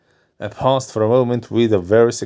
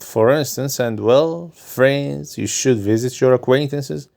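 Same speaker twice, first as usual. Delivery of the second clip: doctor's voice; 3 semitones higher than usual. Acted. Doctor advising his nervous patient, lightly voiced.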